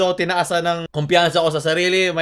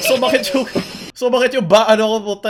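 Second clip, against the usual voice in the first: higher-pitched, strained from suppressed laughter; aching from held-in laughter; holding back laughter; 4 semitones higher, faster than usual. Real, not acted. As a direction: struggle to talk while fighting off laughs. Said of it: "ang sakit pala magpingil ng tao".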